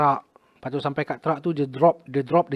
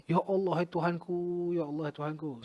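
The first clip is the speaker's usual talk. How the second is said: retold tearful prayer, trailing softer; mock tearful plea; 6 dB quieter than usual. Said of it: "Saya menangis". (rintihan kepada Tuhan, meniru tangisan)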